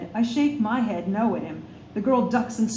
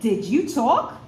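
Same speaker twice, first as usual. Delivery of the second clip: mock shout; 4 dB louder, slower than usual. A narrator's reading. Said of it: "She snaps her head around and shouts".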